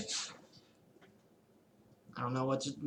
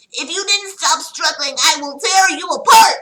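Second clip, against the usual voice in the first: louder, higher angry threat; 10 semitones higher, 7 dB louder than usual. Acted. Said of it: "an angry tone".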